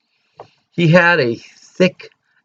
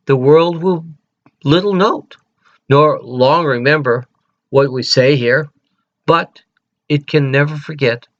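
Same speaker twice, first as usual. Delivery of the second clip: reciting the Gettysburg Address. Acted. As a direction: declaim it like a president at a memorial. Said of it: "Let me read it to you".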